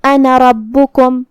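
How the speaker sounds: slow chant of انا ربکم with short second a in انا; silent final alif. Shown as a demonstration. Teacher models the rule, انا ربکم chanted without lengthened alif. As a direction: keep the end of انا short, straight into the r of ربکم. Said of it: "ہم یہ الف کو ظاہر نہیں کریں گے".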